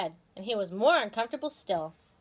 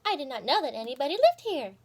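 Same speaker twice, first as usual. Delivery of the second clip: Goody Tiptoes; 4 semitones higher than usual. Acted. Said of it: "said Missus Goody Tiptoes".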